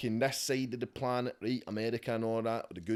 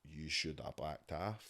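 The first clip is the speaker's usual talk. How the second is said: mock Putin; 8 semitones lower, 9 dB quieter, slower than usual. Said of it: "Putin's just gonna go like that".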